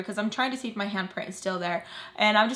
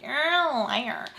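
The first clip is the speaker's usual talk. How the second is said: mocking accusation; 3 semitones higher, much slower than usual. Mocks Sam's drawn-out accusation.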